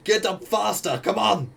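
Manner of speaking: high-pitched yell to hurry up; screaming orders. Acted. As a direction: hurry them up with a high shout. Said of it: "I'm, like, screaming".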